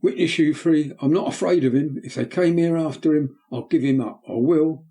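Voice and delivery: put-on excited boy. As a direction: fearless boy crying out to the men. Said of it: "becoming more and more excited".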